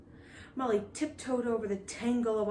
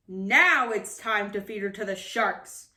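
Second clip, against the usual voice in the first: a louder roar; 5 dB louder than usual. Acted. Captain condemning Molly, roaring. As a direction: roar the sentence. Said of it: "he roared".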